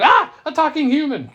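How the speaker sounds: piercing high scream, very loud; shocked scream. Acted. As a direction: shriek in comic horror at an impossible discovery. Snake shocked by a talking human.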